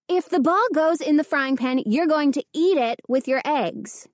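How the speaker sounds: put-on a mother warning the boys over the frying pan; mild threat. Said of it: "she threatened".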